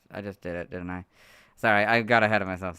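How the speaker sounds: ordinary talk, nothing marked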